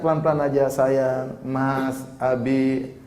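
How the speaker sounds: soothe, don't shout; gentle calming words. Shown as a demonstration. Preacher showing a wife calming her husband, soft and gentle. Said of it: "kenapa harus teriak-teriak?".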